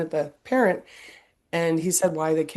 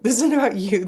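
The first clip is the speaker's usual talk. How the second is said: higher, louder line broken by a laugh; laughing mock scolding; 6 semitones higher, 5 dB louder, faster than usual. Mother repeating the imagined lecture, laughing.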